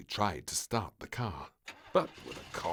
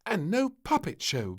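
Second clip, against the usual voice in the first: lightly voiced moaning maid; mild moan; 13 semitones higher, 7 dB louder than usual. The maid complaining about the beach, mild moan. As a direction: moan it a little. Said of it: "moaned the maid".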